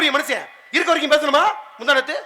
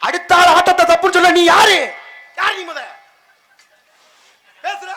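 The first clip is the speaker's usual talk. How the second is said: louder, hammed-up scolding; mock outrage; 2 semitones higher, 5 dB louder than usual. Scolding his friend for calling the dance wrong, in mock anger. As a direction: play at being offended for the joke.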